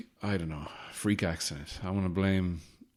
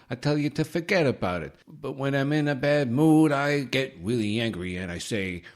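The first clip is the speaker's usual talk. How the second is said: a lightly done Italian-American mobster voice, higher and louder; Italian-American gangster rapper; 4 semitones higher, 3 dB louder than usual. Acted. Vlogger introduces his Italian-American gangster rapper character, lightly hammed-up mobster voice. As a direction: swagger through it as a mock Italian-American tough guy. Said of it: "there's my Italian-American gangster rapper".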